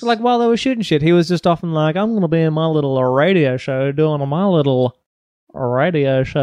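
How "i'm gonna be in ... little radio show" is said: radio show voice. Retold or imitated. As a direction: lay on the on-air voice. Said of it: "why are you doing the radio show voice".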